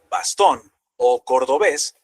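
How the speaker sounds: bastón and cordobés slowed, stressed on -tón and -bés; stress on final syllable. Shown as a demonstration. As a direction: land on the ends of bastón and cordobés. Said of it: "El énfasis va al final". (bastón y cordobés con el golpe en la última sílaba)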